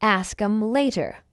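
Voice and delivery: slow, measured "Ask 'em later"; slow model. Shown as a demonstration.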